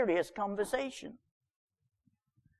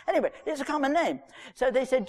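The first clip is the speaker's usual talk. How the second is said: quick, higher words through a laugh; 4 semitones higher, faster than usual. Real, not acted. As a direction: shrug off your own joke with a laugh. Laughs after the joke.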